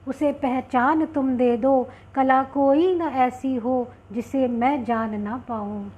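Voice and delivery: slow, measured devotional verse reading; poem recitation. Acted. Poet offers a prayer to goddess Saraswati, reciting slowly. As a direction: recite it as a slow, rhythmic invocation.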